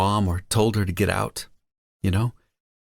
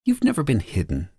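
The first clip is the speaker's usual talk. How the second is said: smiling voice; 4 semitones higher than usual. Acted. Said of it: "I hear her fucking smile in her voice".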